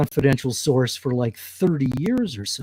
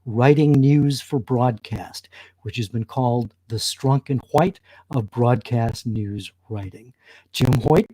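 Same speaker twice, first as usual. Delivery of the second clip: out of breath. Real, not acted. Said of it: "I'm out of breath".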